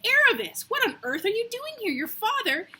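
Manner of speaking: high, loud squealing cry of "Aravis"; shrieking at top of voice. A narrator's reading. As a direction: burst out across the street at full volume. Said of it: "burst out at the top of her voice".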